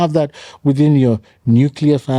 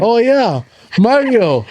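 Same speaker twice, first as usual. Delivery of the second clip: excited; 10 semitones higher, 4 dB louder, slower than usual. Real, not acted. Recalling fun Italian dinner.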